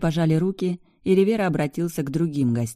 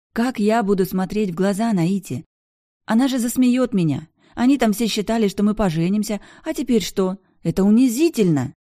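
high, loud, rising indignation; humiliated outrage; 6 semitones higher, 4 dB louder than usual. A narrator's reading. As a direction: rail against the humiliation. Bianca upset. (униженно, громко и высоко)

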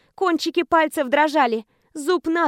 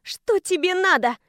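metallic clipped; 4 semitones higher than usual. Acted. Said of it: "отчеканила металлическим голосом".

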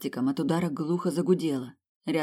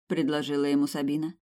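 usual speaking voice

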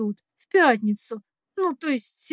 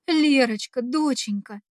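understated sob. Acted. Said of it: "Цежу сквозь зубы, захлёбываясь громкими слезами".

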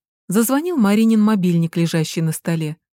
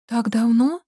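surprised question; 4 semitones higher than usual. Acted. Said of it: "переспросила она".

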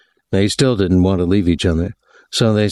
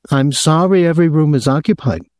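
high-pitched, aggrieved hotel official; aggrieved man; 8 semitones higher than usual. A narrator's reading. Hotel man phoning a guest about his visitor, aggrieved. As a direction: put on a high, officious voice of complaint.

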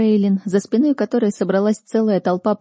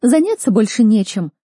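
1 irritated scolding; 4 semitones higher, 5 dB louder than usual. Acted. Lin scolding crowd.

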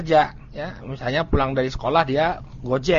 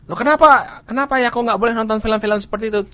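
put-on child questioning; 4 semitones higher than usual. Child asking father, voiced.

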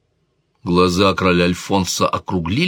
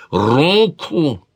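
higher, sharp shouted order; shouted command; 8 semitones higher than usual. A narrator's reading. King shouts for the lady's hand, sharp command. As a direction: bark the word as a royal command. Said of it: "вновь выкрикнул король".

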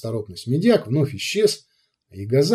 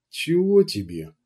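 rude; 4 semitones higher than usual. A narrator's reading. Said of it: "встретила она его грубовато".

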